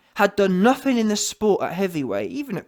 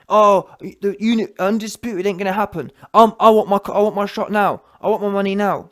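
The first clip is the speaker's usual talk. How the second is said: mock whiny demands; 5 dB louder than usual. Mocking a rival boxer's demands.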